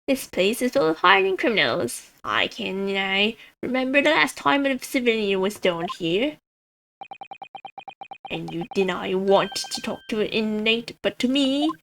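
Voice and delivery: lightly hammed-up high voice; playful high-pitched character voice; high governor voice. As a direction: voice the prison governor high, for kicks. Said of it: "give him a high voice for kicks".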